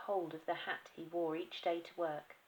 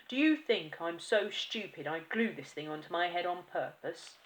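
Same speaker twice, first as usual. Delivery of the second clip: angry; 6 dB louder than usual. Acted.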